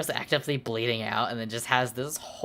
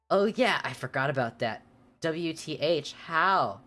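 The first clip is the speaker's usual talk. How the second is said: scream; 2 semitones higher than usual. Retold or imitated. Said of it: "I screamed".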